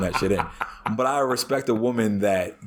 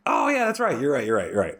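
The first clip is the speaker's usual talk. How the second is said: mock meek agreement; 3 semitones higher than usual. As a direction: parrot her giving in, lightly mocking. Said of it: "And she's just like".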